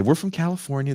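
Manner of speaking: put-on Scots faking a clumsy American accent, pitched high; "We're from California" pushed up high in a poor American accent; a Glasgow rapper's failed attempt at American; bad American accent. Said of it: "the worst American accents ever".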